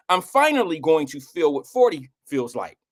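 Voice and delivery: talking around a retainer; slushy lisp from a retainer. Real, not acted. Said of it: "sorry, I got my retainer in".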